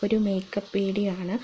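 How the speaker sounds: muffled behind cloth mask; speaking with covered mouth; through a face mask. Real, not acted. Seen 0: Black cloth mask covers mouth and nose throughout; reference frames unmasked.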